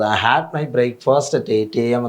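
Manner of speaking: very slow, every word spaced out; slow classroom dictation of an example sentence. Shown as a demonstration. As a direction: read it out slowly for students to copy. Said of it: "എന്നുള്ളത് എന്തായിട്ട് മാറും?".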